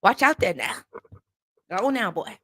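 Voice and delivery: mimicked Southern country uncle; Southern uncle's folksy warning; country uncle's Southern accent. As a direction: put on a down-home Southern accent. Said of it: "I got an uncle that talk like that".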